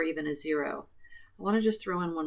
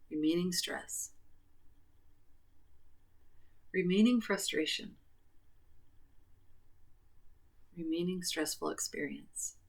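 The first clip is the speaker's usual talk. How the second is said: tapping reminder phrases; 5 dB quieter than usual. Acted.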